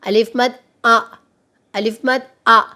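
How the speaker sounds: आ held long, twice the length of a short अलिफ. Shown as a demonstration. Teacher showing pupils the long आ sound of अलिफ मद, stretched out. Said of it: "आवाज़ दो अलिफ के बराबर लंबी हो जाती है".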